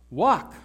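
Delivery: Walk as a one-word order; command. Shown as a demonstration. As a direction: give Walk as a firm, standalone command. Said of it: "It's a command".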